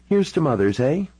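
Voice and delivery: high-pitched toast with a Canadian lilt; tipsy Canadian-accented toast. Acted. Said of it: "her Canadian accent was already getting stronger".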